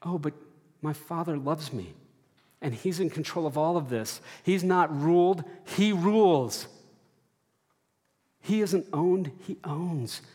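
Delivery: rising, stronger affirmation; confident declaration. Pretend. Believers declaring their Father is in control, rising conviction. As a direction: proclaim God's rule with growing conviction. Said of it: "we say".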